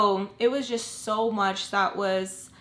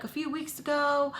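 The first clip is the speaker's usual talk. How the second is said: higher-pitched quote of the neighbor; said higher, without force; casual retold remark; 6 semitones higher than usual. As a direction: lightly mimic her offhand mention. Quoting overheard woman's remark.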